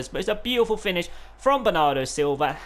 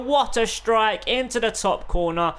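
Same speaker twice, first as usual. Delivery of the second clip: excited commentary; 4 semitones higher than usual. Real, not acted. Right after the goal yell.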